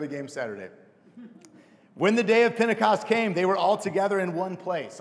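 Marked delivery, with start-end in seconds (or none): 1.9-5.0 football coach's voice. Real, not acted. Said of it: "I have my football coach's voice right now".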